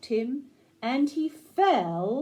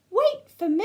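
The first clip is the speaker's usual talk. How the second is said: high, louder call from a left-behind teddy; little bear calling out; 9 semitones higher, 5 dB louder than usual. Acted. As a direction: call after the boy, worried. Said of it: "And the bear says".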